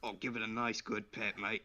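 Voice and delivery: casual put-on Aussie; playful Australian horse owner; Australian accent. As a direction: encourage in a mock Australian accent. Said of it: "How did you go Australian?".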